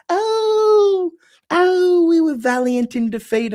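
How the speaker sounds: high, wailing Shakespearean put-on accent; mock Shakespearean accent. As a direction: lament it like a hammy Shakespearean actor. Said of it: "You love the Shakespearean accent".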